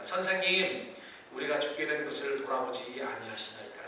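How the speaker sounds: calm, measured reading of the plea; dignified, calm. Shown as a demonstration. Disciples addressing Jesus, read calmly and dignified. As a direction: say it gently, with composure. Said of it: "저는 이렇게 점잖게 말했지만은".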